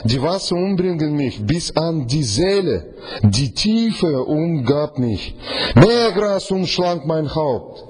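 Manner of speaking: langsam, getragen gelesen; langsame Bibellesung. Acted. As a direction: jedes Wort schwer setzen. Liest Vers langsam. (langsam vorgelesener Vers)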